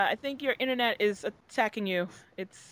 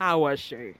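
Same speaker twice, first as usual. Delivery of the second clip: much lower, sly gossip voice; mock gossip voice; 9 semitones lower than usual. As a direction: drop low and dish for the dirt. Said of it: "No, I was playing".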